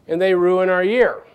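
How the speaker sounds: lightly hammed-up grievance, drawn out; mock lament. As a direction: stretch it out as a mock-aggrieved fan. Joke figure laments his team's losses.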